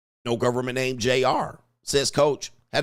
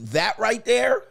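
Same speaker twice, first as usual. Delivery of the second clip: much higher, louder exclamation; high excited yelp; excited exclaim; 10 semitones higher, 5 dB louder, slower than usual. Retold or imitated. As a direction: belt it out with disbelief. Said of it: "And I'm like".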